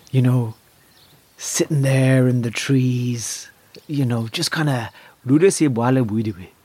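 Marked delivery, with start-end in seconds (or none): 5.3-6.5 lilting gibberish in mock African accent; musical African accent. Shown as a demonstration. Comic showing accent close to music, mock African lilt. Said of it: "the African accent is as close to music".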